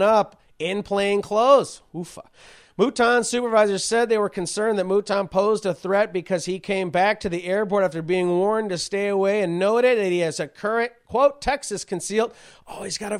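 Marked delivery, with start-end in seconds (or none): 2.8-12.3 higher-pitched reading voice; reciting a news article, pitch lifted. Real, not acted. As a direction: read the report aloud to the audience. Reads out a news report.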